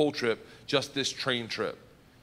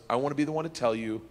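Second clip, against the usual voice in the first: smug; 5 semitones lower, 4 dB quieter than usual. Retold or imitated. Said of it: "smiling, and goes".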